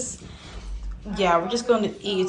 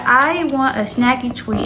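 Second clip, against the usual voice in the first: voicing the pet; 3 semitones higher, 6 dB louder than usual. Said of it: "She said".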